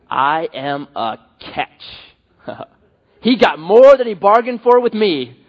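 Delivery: slow, mock-smug voice of a proud believer; a preacher hamming up a self-satisfied Christian, lightly voiced; smug self-praise. Preacher mocks a proud Christian admiring himself, slow smug drawl. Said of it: "This is how they view God's grace. Like this".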